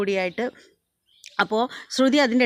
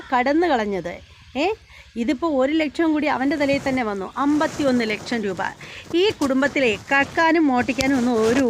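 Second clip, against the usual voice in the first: higher, raised scolding voice; angry scolding; 3 semitones higher than usual. Retold or imitated. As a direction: tell her off sharply in a quarrel. Sachi scolds sister-in-law in quarrel.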